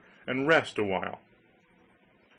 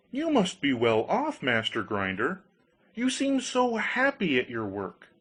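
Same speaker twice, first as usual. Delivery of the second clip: higher, eager voice for simple Hans; naive Hans pleading; 3 semitones higher than usual. Acted. Hans begs the countryman to swap the goose, lightly voiced higher and eager. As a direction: beg like a trusting young fool.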